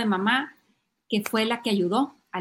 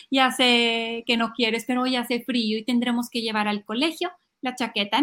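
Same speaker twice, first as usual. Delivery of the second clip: patient mom. Acted. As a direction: calmly acknowledge the tantrum, unmoved. Mamá calmada ante el berrinche. (mamá paciente, con calma)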